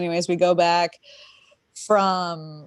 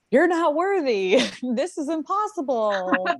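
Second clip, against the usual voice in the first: inner critic voice; 7 semitones higher than usual. Retold or imitated. The inner critic voiced during her session.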